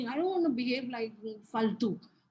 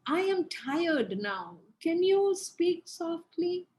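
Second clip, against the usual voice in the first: calm tired request; 3 semitones higher than usual. Shown as a demonstration. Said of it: "You can say".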